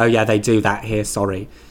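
put-on low-class accent. Speaker quoting a character from Saltburn, in a low-class accent. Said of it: "didn't have low class accents like that".

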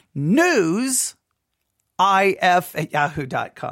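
said slowly and carefully, clearly enunciated. Speaker gives listeners the email address again, said slowly and carefully. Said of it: "I try to say it as slow as I can".

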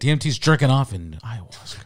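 very loud, high, insistent, emphatic proclamation. Retelling how he put the comparison: imitating his tone. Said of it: "And the way he said it, the tone".

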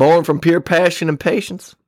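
put-on Texas accent, drawling. Reading aloud the description on the back of a distillery's bottle: Texas accent. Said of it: "I'm actually going to try to read it in a Texas accent".

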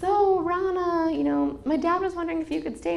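high, sugary fake-sweet voice.

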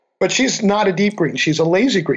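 ordinary talk, nothing marked

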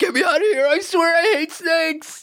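panicked, crying voice.

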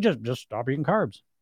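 put-on flat, unemotional tone. Mocking a professor telling you what to do, imitating advice with no emotion. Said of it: "with no sense of emotion".

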